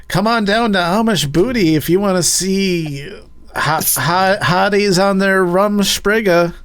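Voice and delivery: cheesy commercial announcer voice; ad voiceover. Acted. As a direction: pitch it like a sleazy late-night ad. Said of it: "Could that be the voiceover, just you saying it like that?".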